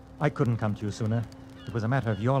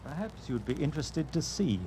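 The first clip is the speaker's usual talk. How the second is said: menacing quiet; 3 semitones higher, 7 dB quieter than usual. Acted. Bill reveals his wall safe to her, quiet menace. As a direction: drop the voice to a threat.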